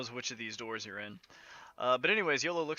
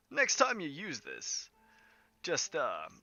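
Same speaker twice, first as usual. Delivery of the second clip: doting showman Yolo, gently chiding; 3 semitones higher than usual. Acted. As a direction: tease your love with a hint of theatre. Game master voices Yolo.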